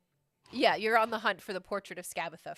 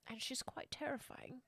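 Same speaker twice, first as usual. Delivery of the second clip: ominous whisper; 5 semitones higher, 13 dB quieter than usual. Acted. Scary description of witch.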